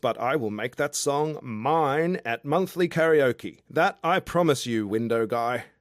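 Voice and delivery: a tipsy outback charmer calling up to a window; drunk Aussie guy. Acted. Drunk Australian guy below her window, boisterous and cheeky.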